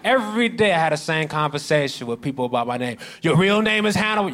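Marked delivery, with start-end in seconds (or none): 3.2-4.3 incredulous asker. Retold or imitated. Asker voiced higher.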